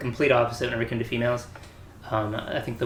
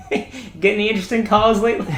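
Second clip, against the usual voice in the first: high teasing through laughter; busting out laughing; 9 semitones higher, 5 dB louder than usual. Retold or imitated. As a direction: imitate friends cracking up at their prank. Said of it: "just, like, busting out laughing".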